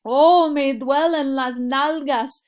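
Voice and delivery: mock pained complaint. Teacher acting out a sore bottom for students, hammed-up pained whine. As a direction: whine it like your backside really hurts.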